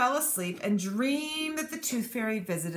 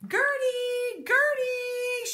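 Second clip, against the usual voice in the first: loud, high call across the water; 4 dB louder, much slower than usual. Acted. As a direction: call her name out to the sky. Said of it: "she called out".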